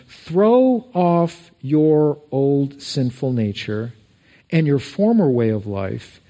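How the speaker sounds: slow, deliberate Bible reading; solemn scripture read from the pulpit. Acted. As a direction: read each phrase slowly and weightily. Reads scripture slowly.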